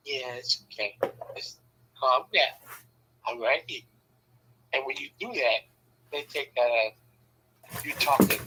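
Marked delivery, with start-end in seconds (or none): 0.1-3.8 calm soothing voice. Shown as a demonstration. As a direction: hush them gently, lower and softer. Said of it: "you know how you talk calm".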